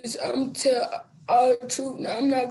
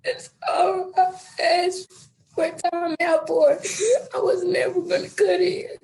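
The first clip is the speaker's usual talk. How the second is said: tearful, voice catching with half-laughs; crying; 3 semitones higher than usual. Real, not acted. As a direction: push the words out through real tears. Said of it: "I think you're really crying".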